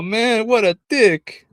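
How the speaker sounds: words squeezed out through laughter, slow; laughing mock outrage; laughing while quoting. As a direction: quote him while cracking up. Retelling the guy's reaction, laughing.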